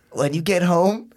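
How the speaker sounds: high, slow threatening mom voice; imitating angry mom. Mom on speaker threatening her son, high and angry. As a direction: lay down the punishment like a furious mom.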